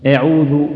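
أعوذ with the first "a" tilted toward "e"; over-thin أعوذ into "e'udhu"; overdone imala. Shown as a demonstration. Quran teacher copying how people mispronounce أعوذ, overdone imala. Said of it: "إلى الإمالة".

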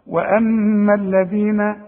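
slow وأما الذين with the tongue between the teeth on ذ; tongue out on dhal. Shown as a demonstration. Teacher modelling the tongue-out dhal. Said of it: "طلع لسانك في الذال".

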